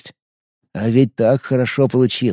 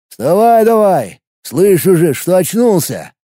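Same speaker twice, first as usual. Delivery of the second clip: gruff; 4 semitones higher, slower than usual. Acted. Kicks the thug awake.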